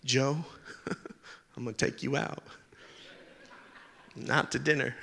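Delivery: a hint of a grim father warning the boy; menacing dad. Jane's father threatening Joe.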